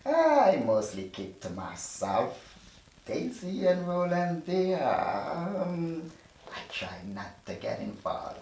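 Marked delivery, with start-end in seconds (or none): 0.0-6.1 nervous. Acted. Nervous evasive answer.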